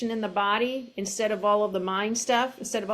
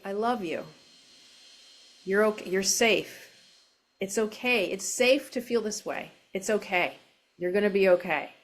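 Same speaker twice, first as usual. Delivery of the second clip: kind self-talk. Shown as a demonstration. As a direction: soothe yourself like a kind friend. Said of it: "in a, a very kind way".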